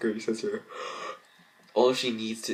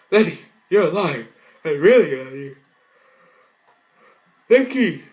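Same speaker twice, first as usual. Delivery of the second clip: much higher, loud overjoyed cry; joyful shout; 8 semitones higher, 11 dB louder than usual. Acted. Sister shouting with joy at Lenny's return. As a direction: burst out with relief.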